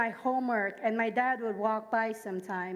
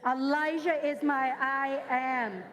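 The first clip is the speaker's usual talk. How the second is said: slower, deliberate call to repeat; slow emphatic repeat; slower than usual. Shown as a demonstration. Pastor having the church repeat it, slow and deliberate. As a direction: lead the congregation through it slowly. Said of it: "we gotta say that again".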